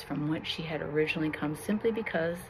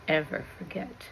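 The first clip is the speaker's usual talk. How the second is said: echoing. A narrator's reading. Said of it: "His voice echoed".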